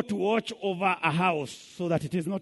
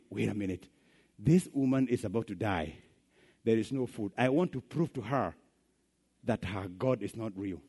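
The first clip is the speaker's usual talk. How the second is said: low, soft, sly scheming; lower, hushed villain plotting; scheming evil neighbor; 6 semitones lower, 5 dB quieter than usual. Retold or imitated. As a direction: plot it quietly, with a sneer.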